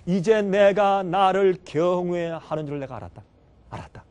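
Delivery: calling out loud, then fading to a hush; a commanding divine call that softens; voice of God. Acted. God calling Abraham to stop the sacrifice, booming then hushed. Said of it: "하나님께서".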